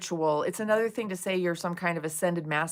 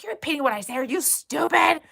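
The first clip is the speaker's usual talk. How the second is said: higher, louder mocking jab; mock insult; 7 semitones higher, 5 dB louder than usual. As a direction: sneer it like an offended guru. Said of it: "He's like".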